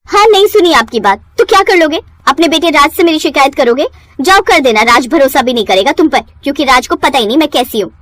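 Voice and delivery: high, defiant sneer; mock the old man's threats; taunting. Wife taunts father-in-law. (ताना मारते हुए)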